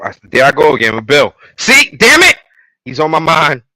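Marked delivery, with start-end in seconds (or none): 1.6-2.4 high, loud frustrated outburst; exasperated shout. Real, not acted. Annoyed at calling Joel Bill again, loud exasperated outburst. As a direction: blurt it at yourself for the slip. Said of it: "annoyed at own slip".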